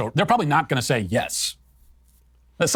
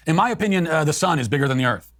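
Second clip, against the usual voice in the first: mock hedge; 3 semitones higher than usual. Mocking a hedged answer.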